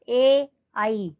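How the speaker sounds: ए आई stretched very slowly from throat to palate; vowels sounded out. Shown as a demonstration. Teacher showing where ए आई sound, drawn out. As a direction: hold ए then आई long and slow. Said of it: "गले की ध्वनि भी आ रही है".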